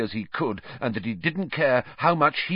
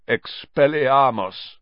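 slow, rasping croak of a spell; 4 semitones higher, 3 dB louder, slower than usual. A narrator's reading. Black disarming the children, slow croaked spell. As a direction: croak it out like a rusty voice. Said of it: "he croaked".

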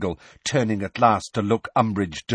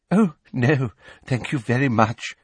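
simpering laugh; 4 semitones higher than usual. Acted. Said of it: "with that simpering laugh".

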